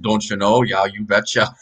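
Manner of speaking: put-on joking North Dakota accent. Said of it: "I got rid of my North Dakota accent".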